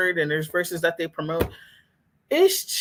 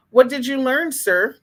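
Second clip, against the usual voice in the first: mocking challenge; 4 semitones higher, 4 dB louder than usual. Mocking commenters who praised video.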